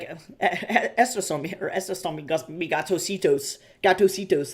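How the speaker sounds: put-on stumbling Spanish in a California Valley Girl accent; American Valley Girl accent on Spanish. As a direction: imitate a Valley Girl fumbling her Spanish. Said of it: "her accent is, like, wild".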